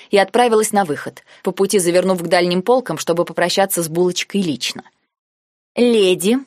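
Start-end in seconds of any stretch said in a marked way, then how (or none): 5.7-6.4 нараспев, громче, с подъёмом в конце; приторно-ласково пропеть; сладко протянула. Acted. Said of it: "протянула я сладко". (сладко тянет «Леди» с подъёмом)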